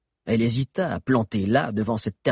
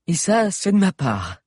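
put-on higher youthful boy voice; teen boy voice; 9 semitones higher, 6 dB louder than usual. A narrator's reading. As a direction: voice an eager teenage boy. Valère's character voice.

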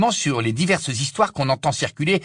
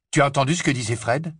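feverish; faster than usual. Acted. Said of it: "demanda Harry d'un ton fébrile".

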